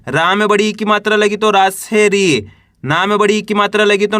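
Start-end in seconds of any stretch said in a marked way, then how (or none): 1.5-2.5 long falling ee in री; drawn-out syllable. Shown as a demonstration. Teacher showing how रा becomes री, vowel stretched. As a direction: draw out the vowel of री. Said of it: "खींच के इसका उच्चारण करना है".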